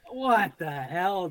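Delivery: drawn-out, disbelieving what the hell; slow exasperation. Retold or imitated. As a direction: stretch it out in disbelief. Deer keeps running after the shot.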